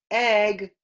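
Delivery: teacher prompting the word egg; modelled word. Shown as a demonstration. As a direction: egg said high and clear for children.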